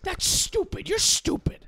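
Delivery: shrill screaming mom, way up high and loud; mom impression. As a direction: scream it like an enraged mother. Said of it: "my mom sounds like Marge Simpson in my impression".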